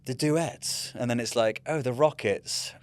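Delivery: mock announcer voice, barely holding in laughter; laughing mock quiz call. Quizmaster reading the team names, mock and laughing. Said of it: "So they're like".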